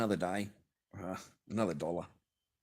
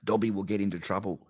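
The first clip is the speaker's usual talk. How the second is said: Dobby voice; 3 dB louder than usual. Retold or imitated.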